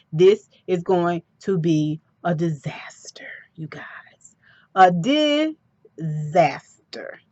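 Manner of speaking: breathy whispered aside, slow. Real, not acted. Whispering to viewers that a disaster is coming. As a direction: lean in and whisper the warning.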